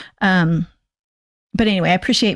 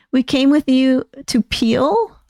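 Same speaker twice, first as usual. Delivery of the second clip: puzzled, slow rising question; confused question; 4 semitones higher, slower than usual. Real, not acted. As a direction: ask it like you can't make sense of it. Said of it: "I'm not following that".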